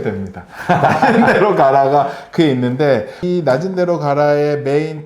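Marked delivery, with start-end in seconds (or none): 0.7-4.6 laughing through the book title, a bit louder. Real, not acted. Host plugging the pastor's book, laughing. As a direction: chuckle while naming the book.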